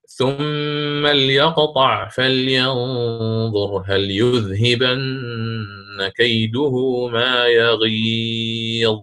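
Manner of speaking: slow chanted recitation with ليقطع on a silent lam; تلاوة مرتلة بإسكان اللام; Quran recitation, sukun. Shown as a demonstration. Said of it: "قرأه الإمام قالون بإسكان اللام".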